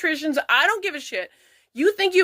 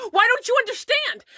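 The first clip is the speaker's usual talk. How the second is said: mocking quote; 7 semitones higher than usual. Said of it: "they're like".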